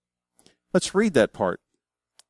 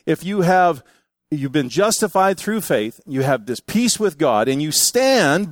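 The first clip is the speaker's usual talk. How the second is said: preaching. Acted. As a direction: proclaim it from the pulpit. Preacher quotes Paul forcefully.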